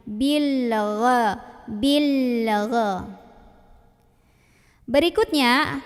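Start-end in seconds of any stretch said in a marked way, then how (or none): 0.0-3.1 "bil gha" with the l sustained until the throaty gha; held l into gha. Shown as a demonstration. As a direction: hold the l in "bil", then release straight into "gha". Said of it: "jangan dilepas sebelum bunyiin huruf depannya".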